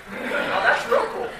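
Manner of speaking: a goofy, dazzled "Oh, that's real cool." while gaping at the welder; mock awe. It's real cool to stare at a welder.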